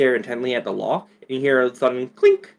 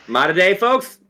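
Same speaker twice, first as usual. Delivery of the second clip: lightly put-on Southern rooster accent; a hint of Southern cartoon twang; 3 semitones higher than usual. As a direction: greet them in a mock Southern accent. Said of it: "he's suddenly from the south".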